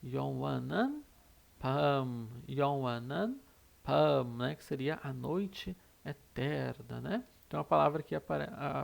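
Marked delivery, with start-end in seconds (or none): 0.0-4.2 "Yonwanan Pam" read carefully with a rising tune; reading Korean lyrics. Shown as a demonstration. Teacher reading a song lyric for students. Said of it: "fala mais ou menos assim".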